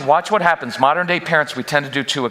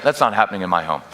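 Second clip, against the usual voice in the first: matter-of-fact; 6 semitones lower, faster than usual. Shown as a demonstration. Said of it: "a statement of fact".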